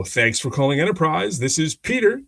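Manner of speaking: lightly put-on professional greeting, lifting at the name; formal phone greeting. Branch manager answering a customer's call, formal phone voice. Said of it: "which is much more formal".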